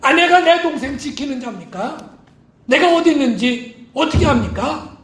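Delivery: a touch of a surly brush-off; lightly voiced sullen Cain, curt; blunt reply. Cain to God, lightly voiced blunt denial. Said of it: "가인이 퉁명스럽게 이렇게 대답을".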